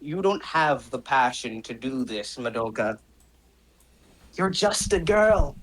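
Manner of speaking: lightly voiced cold villain; contemptuous villain. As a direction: belittle a fallen opponent, with long pauses. Villain belittles the fallen heroine.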